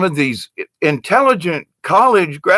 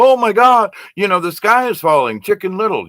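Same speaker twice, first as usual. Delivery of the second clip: mock panic; 6 semitones higher than usual. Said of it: "a bunch of kids go".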